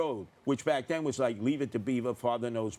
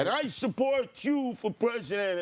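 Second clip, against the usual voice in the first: put-on rousing Puerto Rican accent, pitched higher; 9 semitones higher than usual. The reverend endorsing Trump before the crowd, in a Puerto Rican accent. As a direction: finish the quote like a proud Puerto Rican preacher. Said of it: "speaks with a heavy accent".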